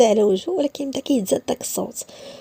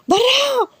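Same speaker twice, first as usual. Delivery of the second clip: high shout of out; shouted order; 14 semitones higher, 3 dB louder, much slower than usual. Acted. Woman throwing Issa out, shouting. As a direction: yell him out of the room.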